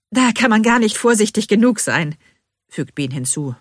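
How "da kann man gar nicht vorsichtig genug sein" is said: high, loud, suppressed hysteria; slight tremble. A narrator's reading. Bean playing along with the workman, slight tremble. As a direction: hold back giggles with a slight quiver. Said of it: "mit so einem leichten Beben in der Stimme".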